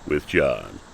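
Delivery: smooth radio host greeting; morning radio voice. Acted. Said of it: "I like my morning radio voice".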